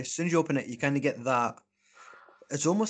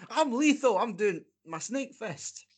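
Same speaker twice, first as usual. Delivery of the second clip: mock kung fu fighter; 9 semitones higher, slower than usual.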